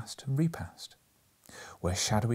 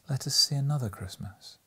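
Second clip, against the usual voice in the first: hushed ghost voice; 5 semitones higher than usual. Acted. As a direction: speak as a gentle ghost, hushed. Ghost speaks in story.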